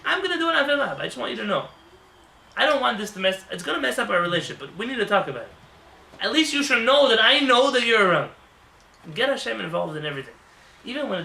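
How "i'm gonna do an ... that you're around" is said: mock prayer to God. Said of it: "say something crazy".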